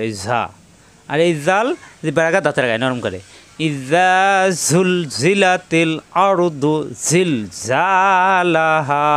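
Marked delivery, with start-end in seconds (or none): 3.7-9.1 Quran recitation. Shown as a demonstration. Teacher recites verse.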